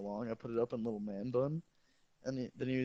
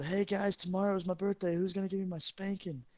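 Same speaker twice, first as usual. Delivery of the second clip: higher, teasing sing-song; cheeky invitation; 7 semitones higher than usual. Retold or imitated. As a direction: bait the team playfully. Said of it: "I said".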